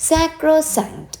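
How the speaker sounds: high, drawn-out "Sacrosanct", each syllable clear; pronunciation demo. Shown as a demonstration. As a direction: model "Sacrosanct" slowly for learners. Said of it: "എന്താ pronunciation എന്ന് നോക്കാം".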